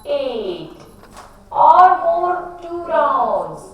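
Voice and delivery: slow, sing-song drawn-out cues; guided breathing. Acted. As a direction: stretch each word like a long breath. Leads breathing rounds.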